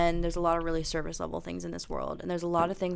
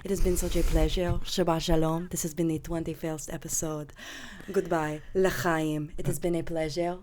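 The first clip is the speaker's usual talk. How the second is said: Jewish grandma voice. Acted. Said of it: "do our outro in the Jewish grandma voice".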